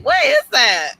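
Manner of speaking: high, loud startled shriek; shocked cry. Retold or imitated. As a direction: yelp it out as if spooked by a noise. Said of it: "I was like".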